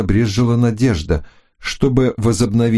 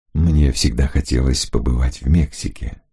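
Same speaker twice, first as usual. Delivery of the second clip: calm lower gentleman; man's voice; 7 semitones lower than usual. Acted. Hunter answers Florinda.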